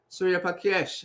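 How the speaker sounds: "Surya Pakesh" run together quickly in one breath; rushed name. Real, not acted. Host greets a viewer by name, quick and rushed. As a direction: toss the name off fast without care. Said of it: "I said it very fast".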